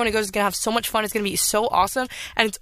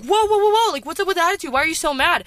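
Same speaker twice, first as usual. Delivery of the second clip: friend taken aback; 7 semitones higher than usual. Retold or imitated. Host imitating her friend's reaction to her outburst, taken aback. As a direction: act out a friend backing off, pitched up.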